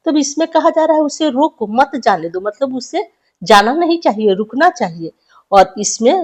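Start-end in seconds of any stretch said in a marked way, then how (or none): 1.0-2.4 "उसे रोको" set off, then "मत जाने दो" falling; explanatory reading with "मत जाने दो" grouped; pause after रोको. Shown as a demonstration. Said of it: "यहाँ पर जब हम कॉमा लगा देते हैं".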